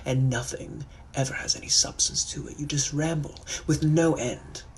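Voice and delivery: fed-up Victorian gent silencing a chatterbox; irritated British gentleman. Acted. Gentleman to someone who never shuts up, irritated British accent. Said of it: "I'm also a British gentleman from the eighteen hundreds".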